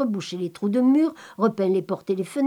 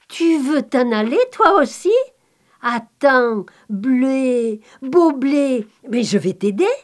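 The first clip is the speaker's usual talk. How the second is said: lightly raised, eager voice for the innocent Pataté; simple-hearted Pataté; 2 semitones higher, 4 dB louder than usual. Acted. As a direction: coax the wheat like a kind simpleton. Pataté talks to the wheat.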